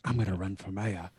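lightly put-on city politician voice; a rough stab at a TV character's accent; half-hearted character imitation; Littlefinger. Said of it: "Littlefinger is like".

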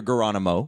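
GERONIMO said "guh-RON-imo"; hard G. Pretend. Co-host extending the hard G joke, GERONIMO with hard G. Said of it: "it's a hard G".

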